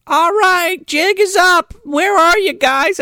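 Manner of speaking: put-on high, bossy kid voice; girl ending hide and seek; little girl voice. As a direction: call out like a silly child. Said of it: "this little girl's like".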